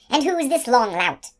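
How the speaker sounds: scornful. A narrator's reading. Woman sneering at Schmendrick.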